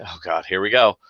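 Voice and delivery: mock weary sigh into the words; resigned sigh. Dog owner seeing another dog across the street, mildly resigned. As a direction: sigh it out like a fed-up owner, lightly acted. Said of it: "and they sigh".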